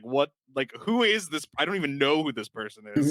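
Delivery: baffled quote, pitch jumping up; mock bafflement. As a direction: act out her bewildered disbelief. Acting out the heroine's bafflement.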